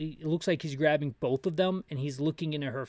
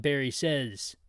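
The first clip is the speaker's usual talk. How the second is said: ordinary talk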